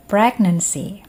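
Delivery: careful, emphatic single-word model for repeating; pronunciation model. Shown as a demonstration. Teacher models a word for students to repeat, carefully articulated. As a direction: say it clearly for learners to copy. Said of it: "Saya ucapkan, lalu kalian coba ikuti".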